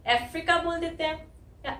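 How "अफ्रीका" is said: 'अफ्रीका' starting with an 'e' sound; common mispronunciation. Retold or imitated. Teacher quotes a common mistake to learners, mispronounced 'अफ्रीका'. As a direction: imitate people saying 'अफ्रीका' as 'efrika'. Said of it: "इसको कुछ लोग क्या बोलते हैं?".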